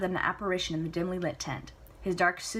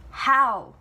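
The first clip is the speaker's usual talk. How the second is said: loud, higher demand; 6 semitones higher, 10 dB louder than usual. Acted. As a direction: fire the question at him. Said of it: "Celia demands".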